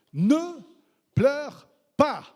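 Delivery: Jesus's firm, tender command; Jesus speaking. Acted. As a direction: speak as Jesus, loud and gentle. Voicing Jesus.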